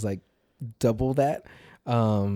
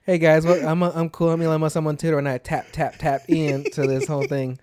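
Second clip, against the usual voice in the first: hammed-up hip billionaire; mock cool guy; 4 semitones higher, 4 dB louder than usual. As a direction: play it like a try-hard cool guy. Mock Elon Musk intro.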